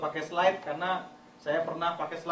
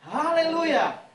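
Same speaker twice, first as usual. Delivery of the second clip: climbing from plain to much higher, louder shouting; building praise reading; 4 semitones higher, 7 dB louder than usual. Shown as a demonstration. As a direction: rise with every verse until a full shout.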